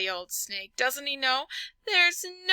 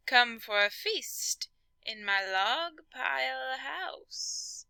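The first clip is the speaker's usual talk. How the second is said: sly snake; 3 semitones higher, 4 dB quieter, slower than usual. Acted.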